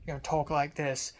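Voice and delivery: put-on British accent. Showing the voice planned for the getup, British accent. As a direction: slip lightly into a British accent. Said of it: "I'm gonna do a British, British accent".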